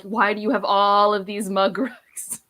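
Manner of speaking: slow, laughing question; laughing disbelief. Retold or imitated. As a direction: ask it in amused disbelief, laughing through. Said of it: "and we're like".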